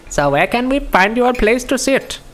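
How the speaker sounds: put-on high Indian-accented character voice. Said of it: "I can't do Russian names in an Indian accent".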